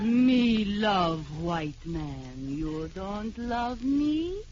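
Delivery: low, slow broken-English native; wife playing island native on the floor; mock island native. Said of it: "as a South Sea Island native".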